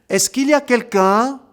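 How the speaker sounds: high, loud call into the empty house. Acted. Girl calling into the silent compound, loud and high. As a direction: call out to see if anyone is home. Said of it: "crie Dalla".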